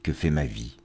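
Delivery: measured verse reading with pauses between lines; poetry recitation. Acted. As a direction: recite each line deliberately, letting endings fall away. Reads poems aloud on programme.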